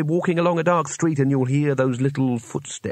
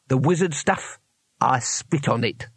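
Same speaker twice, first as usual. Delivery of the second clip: gruff thug voice. Acted. Weems defiant at knifepoint.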